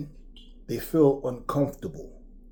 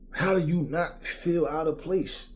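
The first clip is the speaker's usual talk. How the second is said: ordinary talk, nothing marked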